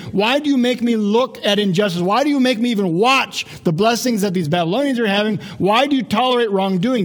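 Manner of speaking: acted prophet's protest; complaining. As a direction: challenge God with each why. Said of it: "Habakkuk is complaining".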